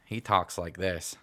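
slow imitated Southern drawl; mock Southern accent; uncle's Southern accent. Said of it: "my Uncle Nick".

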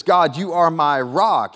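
slow, proclaimed with conviction; earnest declaration. Retold or imitated. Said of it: "he says".

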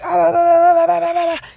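put-on high, sing-out baby babble; super excited toddler. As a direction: imitate a toddler chattering away excitedly. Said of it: "she's just super excited".

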